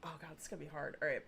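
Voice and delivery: usual speaking voice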